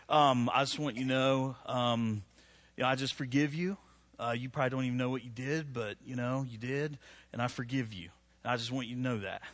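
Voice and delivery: condescending fake forgiveness. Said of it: "But that is so not forgiveness".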